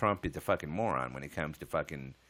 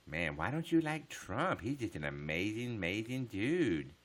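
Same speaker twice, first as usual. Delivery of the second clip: sarcastic praise; 3 semitones higher, slower than usual. Pretend.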